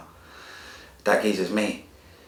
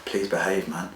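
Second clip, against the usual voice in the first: hushed, near-whispered begging; quiet desperate plea to his daughter; 7 dB quieter than usual. Retold or imitated. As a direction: beg her softly, almost breathless. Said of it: "I begged her".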